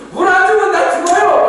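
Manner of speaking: high, pleading outcry; hammed-up life-or-death begging, pitched high; desperate demand. Preacher mimicking people begging God for water, high desperate demand. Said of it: "막 이래야 되는데".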